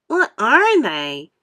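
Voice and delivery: slow, anxious question; worried. A narrator's reading. Earthworm asking the others, worried. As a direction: ask it fearing the answer. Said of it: "getting worried".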